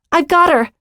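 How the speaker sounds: high-pitched urgent announcement; calling out. A narrator's reading. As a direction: call the news out to the others. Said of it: "Becca called out".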